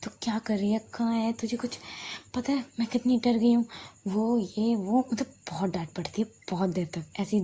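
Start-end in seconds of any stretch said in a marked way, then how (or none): 0.0-3.7 worried scolding. Retold or imitated. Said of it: "पूरा चिल्लाने की आवाज़".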